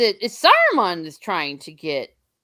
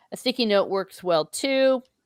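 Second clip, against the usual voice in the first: ordinary delivery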